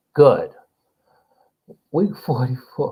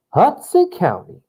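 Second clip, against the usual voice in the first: Hudson County called out higher, hyped; proud hometown cheer, higher pitched; excited hype; 7 semitones higher than usual. Real, not acted. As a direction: shout out your home county with pride. Hyping his home county.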